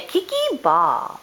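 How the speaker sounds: put-on high and slow, spelled out for a toddler; slow high prompt. Shown as a demonstration. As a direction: draw it out high and coaxing. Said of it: "can you say".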